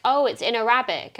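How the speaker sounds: "Arabic" stressed on the second syllable, a-RAB-ic; retold friend saying a-RAB-ic; mispronounced "Arabic". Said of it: "my mum says it like Arabic".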